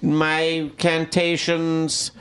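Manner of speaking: very slow, drawn-out incantation; hammed-up psychic intoning each word; mock medium. Medium answering her hecklers, slow mock chant.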